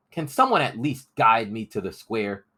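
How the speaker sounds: put-on a boy asking desperately for a guide; begging boy. Crispin begs the rebels for a guide, high and pleading.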